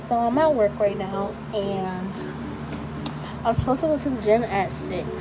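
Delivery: muffled behind mask; talking into surgical mask; through a face mask. Real, not acted. Seen 0: Speaker wears a surgical mask over mouth and nose throughout.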